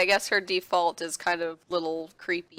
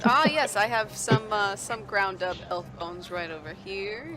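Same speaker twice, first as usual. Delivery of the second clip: shopkeeper voice; 2 semitones higher, 4 dB louder than usual. Acted. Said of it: "He says".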